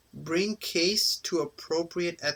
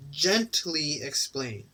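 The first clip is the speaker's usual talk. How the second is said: slow read; much slower than usual. Shown as a demonstration. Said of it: "very important thing here".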